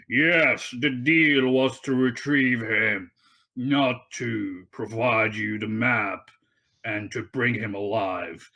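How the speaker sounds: a rugged haggler, pressing the point slowly. Acted. Game master voices a captor arguing to be paid, rugged voice. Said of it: "a rugged voice".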